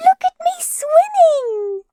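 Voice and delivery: very high, slow, proud little squeak; squeaky Roo. A narrator's reading. Roo showing off from the middle of his pool, squeaky. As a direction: squeak it like a tiny proud joey. Roo's voice.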